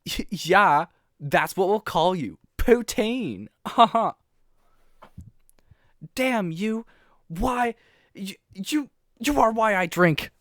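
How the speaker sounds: high lady's voice, half-laughing. Acted. Poutine blames the crowd for her drinking, in a high lady voice. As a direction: pitch it up as a tipsy lady. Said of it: "slightly higher pitched lady for Poutine".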